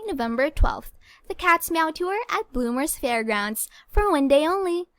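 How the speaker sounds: put-on bright little announcer voice for girls; small high-pitched voice. Shown as a demonstration. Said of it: "I have to make my voice smaller, a bit high-pitched".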